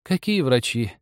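put-on high, tender old woman's voice; affectionate. A narrator's reading. Old woman answers from next room, affectionately. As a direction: chide gently and fondly. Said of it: "ласково сказала из другой комнаты старуха".

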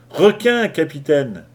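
high, loud warning cry; urgent cry. A narrator's reading. Kanak warning his captain of a shark, crying out. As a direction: call out the alarm sharply to the captain. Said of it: "s'écria-t-il".

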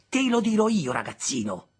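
high, loud complaint; protesting. Acted. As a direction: complain about the boy. Sister rises angrily.

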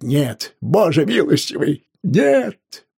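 high, loud, desperate cries; crying out. A narrator's reading. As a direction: cry out in desperate protest. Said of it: "он продолжал кричать". (отчаянные высокие крики)

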